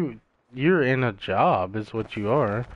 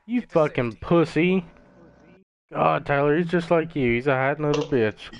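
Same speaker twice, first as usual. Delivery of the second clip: angry yelling; 5 semitones higher, 3 dB louder than usual. Real, not acted. Yelling at teammate over game.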